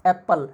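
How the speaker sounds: first syllable of एप्पल stressed. Shown as a demonstration. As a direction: punch the ए in एप्पल, relax on पल. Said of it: "उसको खींच के बोल रहे हैं".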